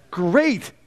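slow, stretched out and in awe; Jesus voiced, drawn out. Jesus marvels at the woman, slow and awed. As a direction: let each word linger in wonder. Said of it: "He said".

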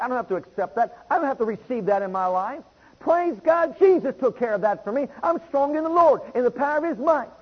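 rising faith-filled declaration; growing encouragement. Acted. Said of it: "and I'll be encouraged".

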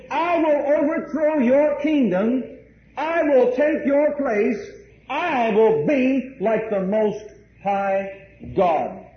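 a hint of a boastful Satan; preacher lightly voicing Satan's defiant vow. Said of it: "This is Satan's will".

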